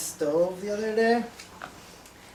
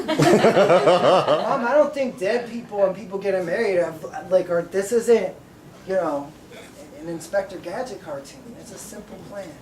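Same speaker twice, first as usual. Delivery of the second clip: laughing through a retold reply; 2 semitones higher, 9 dB louder than usual. Retelling argument with his mom.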